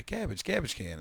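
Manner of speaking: "Garbage" said as GAB-idge; garbled garbage. Retold or imitated. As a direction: drop the r in "Garbage", short a. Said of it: "I called it garbage".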